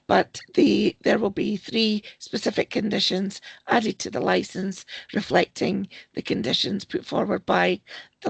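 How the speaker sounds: hoarse, croaky voice from sore vocal cords. Real, not acted. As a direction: speak through a croaky throat. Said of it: "my apologies for my croaky voice".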